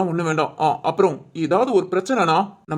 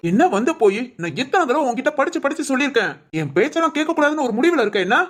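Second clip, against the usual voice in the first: mildly angry, insistent telling-off; exasperated scolding; 2 semitones higher than usual. Acted. Husband scolding wife for not listening, mild exasperation. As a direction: cut off the excuse and scold. Husband cuts off wife's excuse.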